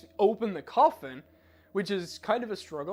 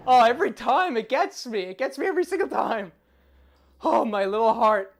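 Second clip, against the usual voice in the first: shaken laughing; 4 semitones higher, 10 dB louder than usual. Real, not acted. Recovering from jump scare.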